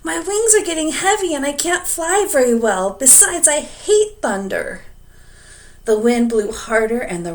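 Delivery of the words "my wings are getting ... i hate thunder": higher, louder weary dragon voice; a struggling dragon complaining; tired dragon. A narrator's reading.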